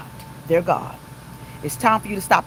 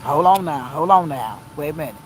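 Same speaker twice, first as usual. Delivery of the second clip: calming self-talk; 7 semitones lower than usual. Retold or imitated. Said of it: "I'm smart enough to say".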